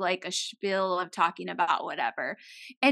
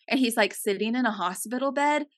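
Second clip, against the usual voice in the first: ordinary talk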